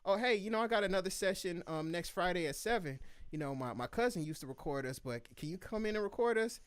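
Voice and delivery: high, eager studio buddy voice; homies asking. Retold or imitated. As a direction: play the excited friend begging for a session. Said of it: "the homies in the studio could be like".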